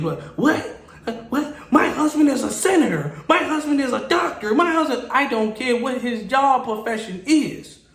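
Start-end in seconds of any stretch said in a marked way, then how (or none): 0.4-5.1 high, indignant outburst, mimicked; irate customer. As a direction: act out an entitled customer kicking off. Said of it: "getting out of hand and getting irate".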